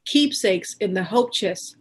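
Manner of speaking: measured recital with pauses between lines; poetry reading. Acted. Poet reads her mother's poem about roots and culture, measured recital. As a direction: recite it line by line, letting each one land.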